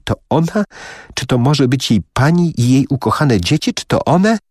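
each question climbs as the shock grows; stunned disbelief. Acted.

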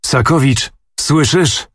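a prince rounding on his man with a dreadful voice; terrible voice. A narrator's reading. Prince calls on Sakowicz in a dreadful voice. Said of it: "ozwał się strasznym głosem Bogusław".

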